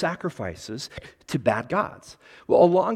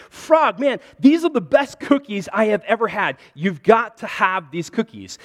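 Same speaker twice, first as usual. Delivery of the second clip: higher, louder, thrilled story character; excited raving; 5 semitones higher, 5 dB louder than usual. Acted. Toad raving to his friend Frog about cookies, excited. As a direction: gush it eagerly to a friend.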